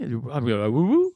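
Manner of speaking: usual speaking voice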